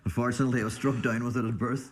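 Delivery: laughing through the words; chuckling while he talks. Real, not acted. Joking about his gear addiction.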